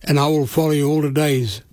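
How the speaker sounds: slow, measured prayer with long pauses between phrases; said slowly. Shown as a demonstration. Radio preacher leading listeners in a prayer, slow and measured. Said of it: "And I'll say it slow".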